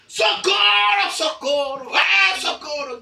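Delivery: high, loud and drawn-out cries; shouting for help. Acted. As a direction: wail for help in panic. (gritando por socorro, alto e agudo)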